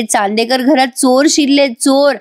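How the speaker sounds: mild mock yell. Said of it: "मोठ्याने ओरडायला".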